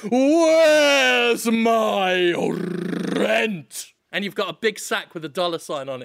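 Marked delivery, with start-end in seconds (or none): 0.1-3.9 long drawn-out shouted demand; gruff impatient scolding. Pretend. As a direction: bellow it slowly like a greedy landlord. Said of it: "you go".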